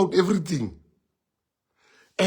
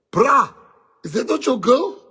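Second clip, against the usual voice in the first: higher, louder call-out to his friend; hey, look at that; mock shout; 7 semitones higher, 4 dB louder than usual. Calling out to his friend about his girl, loudly. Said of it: "I go like".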